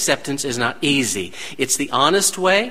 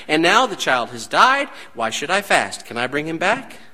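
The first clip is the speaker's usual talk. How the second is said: David's calm reply. Acted. David answers calmly, lower.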